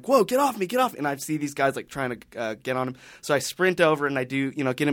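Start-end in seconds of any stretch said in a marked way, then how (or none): 0.0-0.9 retold yell. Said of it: "I hear my friend yelling".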